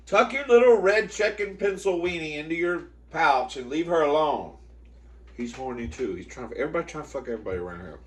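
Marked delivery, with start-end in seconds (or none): 0.1-4.6 higher-pitched telling-off; scolding the dog. Real, not acted. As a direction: order a misbehaving dog to back off.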